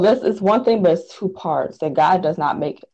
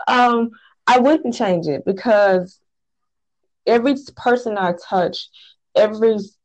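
real near-tears voice, pitched up; holding back tears; 4 semitones higher than usual. Real, not acted. Guest tells host she wouldn't change her painful past, holding back tears. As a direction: keep talking through the urge to cry. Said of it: "I feel like I'm about to cry".

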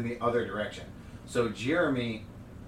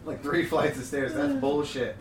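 laughing protest; 4 semitones higher, 4 dB louder than usual. Retold or imitated.

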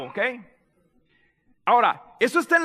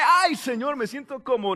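lightly acted happy exclamation to God; mock joyful. Cheerful believer praying to God, mock joyful. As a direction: start lifted, then let it drop. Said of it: "está alegre".

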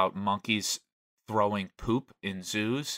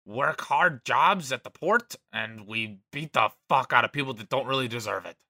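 put-on belligerent drunk leprechaun. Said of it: "such an Irish thing".

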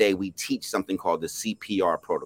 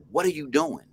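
lightly voiced woman, higher, calm but firm; woman's stern question; 6 semitones higher than usual. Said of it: "And she said".

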